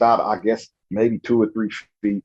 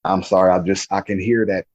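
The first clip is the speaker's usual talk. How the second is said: choked up; 3 semitones lower than usual. Real, not acted. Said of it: "Take your time".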